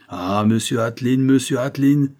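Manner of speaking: a touch of overjoyed exclamation; excited cry. Acted. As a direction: call out his name, thrilled. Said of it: "s'écria le père".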